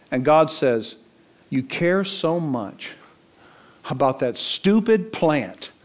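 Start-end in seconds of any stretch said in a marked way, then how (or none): 1.5-5.7 scornful God. Acted. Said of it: "that's the tone here".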